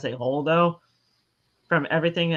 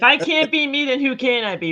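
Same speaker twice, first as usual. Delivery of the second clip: high defiant exclamation; 10 semitones higher, 5 dB louder than usual. Real, not acted. Defiant outburst, high pitch.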